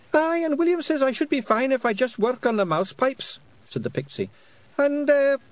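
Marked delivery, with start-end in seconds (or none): 0.1-3.4 high, loud Scottish pixie; squeaky little Scots fairy. A narrator's reading. Pixie figure voice. 4.8-5.4 high, loud Scottish pixie; squeaky little Scots fairy. A narrator's reading. Pixie figure voice.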